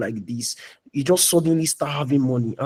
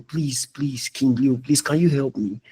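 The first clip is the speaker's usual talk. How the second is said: mock a humble, apologetic plea; pleading. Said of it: "they were pleading".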